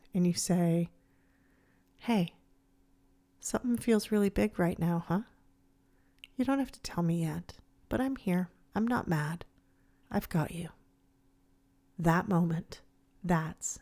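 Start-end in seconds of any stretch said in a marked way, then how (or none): 2.0-10.7 gentle, reassuring, slightly hushed; softened voice. Acted. Parent kneeling down to an upset child, softened reassuring voice. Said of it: "you soften your voice".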